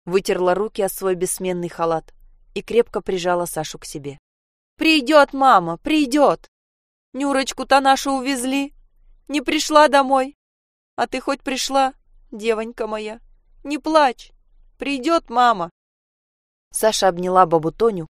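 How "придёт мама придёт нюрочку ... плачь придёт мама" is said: put-on comforting old woman. Grandmother comforting the girl.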